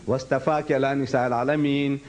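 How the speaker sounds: quick chanted Arabic line; Quran recitation. Shown as a demonstration. Teacher reciting the verse between translations, in chanted Arabic. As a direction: recite it briskly. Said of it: "You read".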